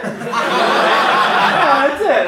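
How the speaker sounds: high-pitched, falling answer; emphatic confirmation. Retold or imitated. Manager confirms the job, high voice.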